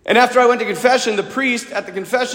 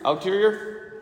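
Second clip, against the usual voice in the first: unsure of the word; 6 dB quieter, slower than usual. Real, not acted. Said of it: "Is that even a word?".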